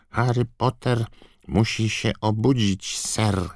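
high, squeaky elf voice; Dobby house-elf voice. A narrator's reading. (wysoki, piskliwy głos skrzata)

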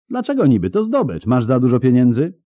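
high-pitched challenging questions; indignant protest. A narrator's reading. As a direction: argue back over the loot. Girl protests order to leave loot.

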